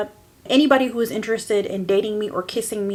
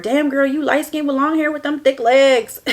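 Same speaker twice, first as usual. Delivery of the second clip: catcalling guy; 5 semitones higher, 4 dB louder than usual. Retold or imitated. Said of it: "That's what all I ever heard".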